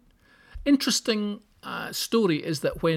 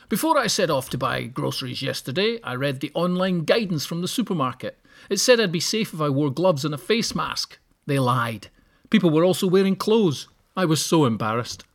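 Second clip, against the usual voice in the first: posh voice; 4 dB louder than usual. Retold or imitated. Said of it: "give him a posh voice like that".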